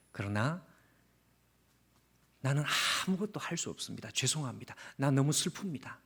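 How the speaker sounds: a soft, lamenting plea to God, sinking into a whisper; Jeremiah's sad prayer. Acted. Preacher voicing Jeremiah's prayer to God, softly sorrowful. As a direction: pray as if your heart won't follow your head, hushed and hurting. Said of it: "이 위대한 선지자가 하고 있는 기도가".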